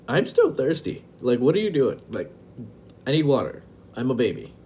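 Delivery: put-on whiny toddler. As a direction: play your thirsty toddler self, complaining to dad. Toddler self whining to dad.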